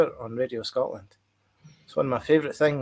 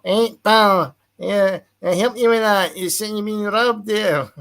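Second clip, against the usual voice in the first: Glasgow impression; 7 semitones higher, slower than usual. Glasgow copper helping a robbed visitor, broad Glasgow accent. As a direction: lay the Glasgow on thick, slowing at the end. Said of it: "That was a great impression".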